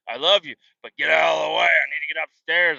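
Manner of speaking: fast, loud loving exasperation; exasperated shout. Retold or imitated. Dad with full arms shouting kids off the stairs, fast and loud. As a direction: hurry them aside, arms full.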